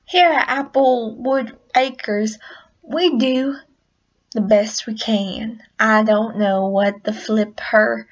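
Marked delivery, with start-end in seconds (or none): 0.0-5.6 lightly voiced country pony; slowed, folksy farm-girl welcome; a hint of country twang; Applejack. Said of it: "I'm Applejack".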